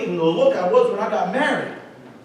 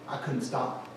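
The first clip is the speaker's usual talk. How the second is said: whispered confession; 9 semitones lower, 12 dB quieter, slower than usual. Real, not acted. Confessing sugar addiction.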